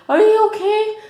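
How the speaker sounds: high loud mock shout from the car; imitating the other driver yelling; retold yell. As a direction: yell it across the street. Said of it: "he was in his car yelling at me".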